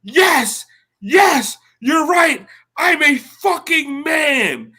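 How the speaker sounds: high pitched exasperated concession; fed-up woman conceding. Retold or imitated. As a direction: give in just to shut him up. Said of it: "eventually she goes".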